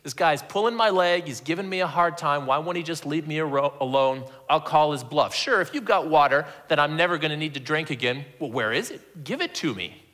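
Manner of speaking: mildly annoyed, sceptical challenge; calling his bluff. Shown as a demonstration. Fed-up woman doubts the stranger's offer, mildly annoyed challenge. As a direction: play her unconvinced, daring him to prove it. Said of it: "I don't read it that way. I think she's".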